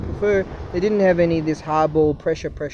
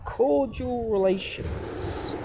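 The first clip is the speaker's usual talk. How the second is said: drawn-out sarcastic; 6 semitones higher, much slower than usual. Acted. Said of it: "that's not the word I'm looking for".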